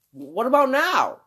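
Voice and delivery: high, slow hopeful plea; mock pleading. Actress asking if she can have her movie, pleading. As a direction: plead like a hopeful star waiting her turn.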